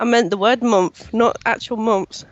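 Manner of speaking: talking through a head cold; stuffy nose from a cold; blocked nose. Real, not acted. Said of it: "the cold's getting worse".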